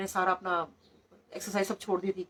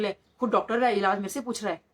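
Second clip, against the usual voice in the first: louder, mock-incredulous teasing; joking retort; 4 dB louder than usual. Guruji to a doctor asking for treatment, joking retort. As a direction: tease him with a jovial comeback. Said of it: "मजाक मजाक में ऐसे जवाब".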